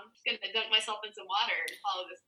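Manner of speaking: fast hushed mock scheme; whispering. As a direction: whisper it quickly, conspiring. Acted quote, whispered fast.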